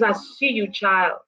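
soft, hushed reassurance; God's gentle answer. Acted. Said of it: "God says".

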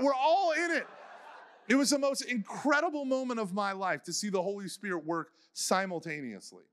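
joyful words broken by laughter; laughing joy. Real, not acted. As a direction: laugh through the memory. Recalling overwhelming moment, laughing.

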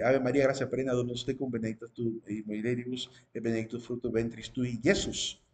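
quick, understated Latin recital; Latin prayer recitation. Shown as a demonstration. Teacher quoting the Ave María of the Catholic Church, Latin recitation. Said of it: "en la lengua latina".

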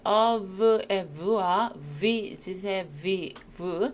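slow demonstration of v in "of" and "visit"; same v sound. Shown as a demonstration. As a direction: buzz the v in "of" and "visit" identically. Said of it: "똑같은 발음이죠".

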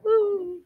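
high hammed-up sob; playful boo-hoo wail; mock sob. A narrator's reading. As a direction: fake a wailing sob. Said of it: "She began to sob".

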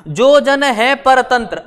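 slow reading, halting after परतंत्र; measured phrase ending on परतंत्र; comma pause demo. Shown as a demonstration. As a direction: read up to परतंत्र and stop as at a comma. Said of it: "अब comma लगा है".

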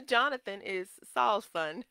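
real excitement breaking into a chuckle; excited correction. Real, not acted. Preacher fixing a slip about Jonathan, excited. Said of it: "I'm getting excited".

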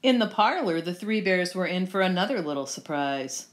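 lively, well-projected storytelling; storybook narration. A narrator's reading. Reader telling children the Goldilocks tale, lively storybook narration. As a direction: read it out like a picture book.

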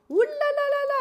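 high, loud, singsong ooh la la; excited squeal. Real, not acted. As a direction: squeal with delight at the news. Pregnant teen friend.

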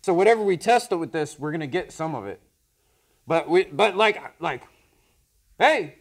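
speaking inside a respirator; muffled through gas mask. Real, not acted. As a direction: voice behind mask visor. Seen 3: Both men wear full gas masks; one removes his at 7.2.

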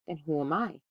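put-on friendly tone, softened; trying to sound friendly. A narrator's reading. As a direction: ask with forced friendliness. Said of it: "trying to sound friendly".

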